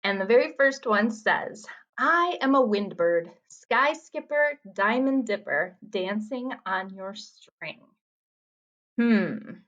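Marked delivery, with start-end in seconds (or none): 2.0-7.8 slow, measured haiku reading; poem reading. Acted. Teacher reads a riddle haiku to students, poem reading. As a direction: read it line by line, unhurried.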